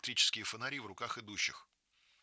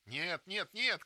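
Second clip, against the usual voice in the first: high, loud building no; girl contradicting loudly; insistent shout; 9 semitones higher, 3 dB louder, slower than usual. Acted. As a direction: shout down her friend's fear. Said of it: "кричит Маруся".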